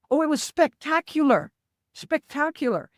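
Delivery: mock-awed, high and loud, then easing off; excited retelling. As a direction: relive the thrill of the blast. The speaker retells bomb test gleefully.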